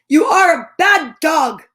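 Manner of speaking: scolding shout. Acted. Scolding the dog Bob.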